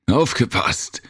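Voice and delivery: a warning call that cracks upward; voice cracking. Acted. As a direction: voice breaking high on the warning. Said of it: "Jims Stimme überschlug sich".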